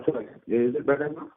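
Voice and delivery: ordinary talk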